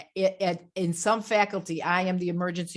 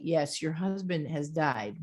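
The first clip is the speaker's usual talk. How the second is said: gentle bad-news voice; 3 dB quieter than usual. Shown as a demonstration. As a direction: answer gently and clearly, falling at the end. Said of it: "that's how you speak when you're giving the bad news".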